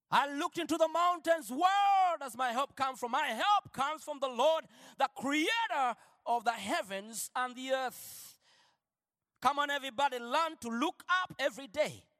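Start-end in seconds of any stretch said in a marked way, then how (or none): 0.1-8.4 full-force sermon delivery; fervent preaching. Acted. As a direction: proclaim it to the whole church. Preaching climax, shouted.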